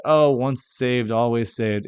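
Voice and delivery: slow, drawn-out mock of the phrase; mocking quote. Mocking people who believe it, then the manner, slow sarcastic drawl. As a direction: sneer at the phrase as you drag it out. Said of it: "All the people who say".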